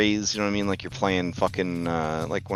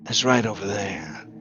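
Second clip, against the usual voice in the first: skeleton voice. Acted. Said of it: "the skeleton says".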